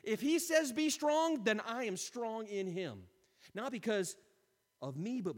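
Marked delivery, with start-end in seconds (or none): 0.0-3.1 loud, slow, high cry of faith; fervent declaration. Pretend. Believer answering God's call, slow fervent cry. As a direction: proclaim it like a victory. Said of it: "start looking unto Jesus and saying".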